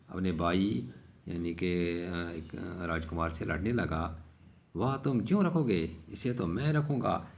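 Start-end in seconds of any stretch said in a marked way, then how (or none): 4.7-7.3 mock indignant prince. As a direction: mimic a bratty prince snatching a prize. Princes quarrel over the knife.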